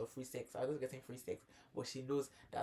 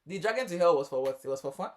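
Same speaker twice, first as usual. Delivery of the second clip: higher, louder mock question; sarcastic disbelief; 5 semitones higher, 9 dB louder than usual. Real, not acted. Host mocking men who play victim, sarcastic. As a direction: needle them with sarcasm. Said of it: "sarcastic rhetorical questions".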